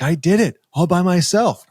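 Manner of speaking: put-on high, bright kid's voice of pride; a young son crowing that he did it alone; proud little boy. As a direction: play the son beaming over his egg.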